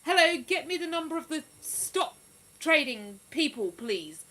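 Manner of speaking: a hint of a bright phone request; playful mock phone call; Monica on the phone. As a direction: lightly mimic a sitcom character ringing up. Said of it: "I'd be like Monica off of Friends, ringing up".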